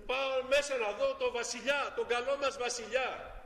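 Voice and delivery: a hint of a hopeful little boy; child's voice. Child answers the palace guard. (ελαφριά παιδική φωνή, ελπιδοφόρα)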